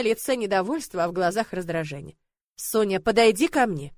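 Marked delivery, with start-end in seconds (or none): 2.6-3.9 stern. Acted. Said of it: "строго сказал он".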